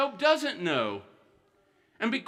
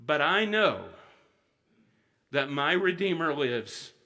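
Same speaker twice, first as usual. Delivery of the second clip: lower, hushed "But I know that my Redeemer lives"; quiet confession; 5 semitones lower than usual. Shown as a demonstration. Preacher reading Job's hope to the congregation, low and hushed. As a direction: let "Redeemer" fall gently and slowly. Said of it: "this is what he says".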